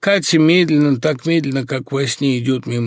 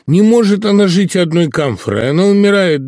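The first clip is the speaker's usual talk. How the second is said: loud, raised cry of despair; theatrical outcry, much louder and higher; theatrical exclamation; 7 semitones higher, 6 dB louder than usual. Acted. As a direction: proclaim it like a stage actor, full voice. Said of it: "тем же точно театральным голосом, воскликнул".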